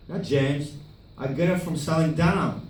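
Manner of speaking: lightly imitated filmmaker; a hint of his accented voice; Tommy. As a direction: mimic his broken-English denial. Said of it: "He's like".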